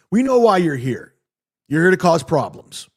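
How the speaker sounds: lightly acted confrontational retelling; accusing doorman. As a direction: imitate a doorman confronting someone.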